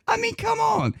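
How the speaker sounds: high, exasperated cry of disbelief; real incredulous yelp; exasperated outburst. Real, not acted. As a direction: throw up your hands in disbelief. Exasperated at a ridiculous article.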